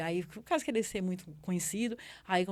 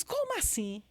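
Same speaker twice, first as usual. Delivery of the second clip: mild mock surprise; 8 semitones higher, slower than usual. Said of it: "tem um grito do outro lado".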